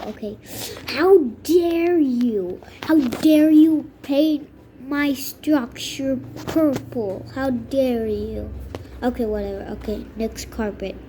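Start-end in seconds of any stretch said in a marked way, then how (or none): 0.9-8.5 slow, theatrical outrage; hammed-up scolding that winds down; mock indignation. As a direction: stretch out every word in affront. Mock outrage at purple paint job.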